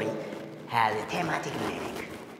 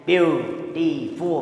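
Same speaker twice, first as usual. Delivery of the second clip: syllables drawn out; 5 dB louder, much slower than usual. Shown as a demonstration. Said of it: "Then we pause in some".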